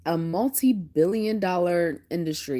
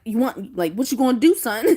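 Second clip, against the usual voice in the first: raised, higher-pitched pretend challenge; mock face-off; 4 semitones higher, 4 dB louder than usual. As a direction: dare him, playing tough. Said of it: "all up in his face".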